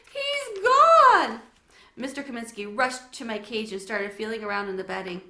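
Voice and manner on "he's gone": high, loud crying wail. Acted. Girl tells parents hamster is gone, loud crying. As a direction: cry it out. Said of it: "Sophie started crying".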